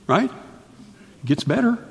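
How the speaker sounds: very slow, high, soft it gets better; stretched, coaxing tease; teasing slow drawl. Acted. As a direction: dangle the promise slowly and lightly. Teasing build to good news.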